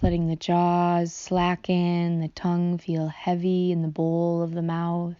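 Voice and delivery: unhurried meditation guide voice, long pauses; guided meditation. Real, not acted. Guide leads listeners through softening the body, guided meditation. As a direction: ease them into relaxing, phrase by phrase.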